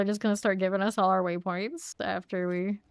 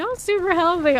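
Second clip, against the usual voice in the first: mock sarcasm; 10 semitones higher, 8 dB louder than usual. Mocking people's reaction to her diet.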